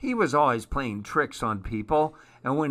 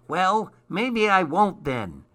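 christmas elf; 7 semitones higher than usual. Acted. Elf answers Larch.

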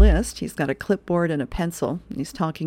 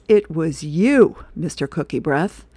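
loud, drawn-out "you", then dropping; mock accusation; 5 dB louder than usual. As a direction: pin the blame on him, playfully stern. Wife accuses husband of raiding cookies.

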